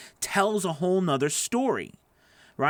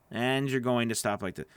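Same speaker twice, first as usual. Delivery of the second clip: lower, softer stop; 4 semitones lower, 4 dB quieter than usual. Shown as a demonstration.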